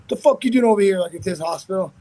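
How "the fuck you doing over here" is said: raised, confrontational retold question; hostile challenge. Rival confronts fighter at hospital, louder mock challenge. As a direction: imitate an accusing demand, higher and louder.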